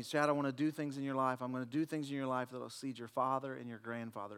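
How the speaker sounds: God speaking softly. Retold or imitated. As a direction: hush it like a holy whisper. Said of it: "the Lord spoke to me".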